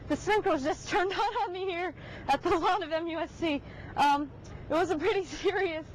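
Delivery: giggling through the words; trying not to laugh on air; anchor stifling giggles. Real, not acted. Soaked by sprinklers mid live report.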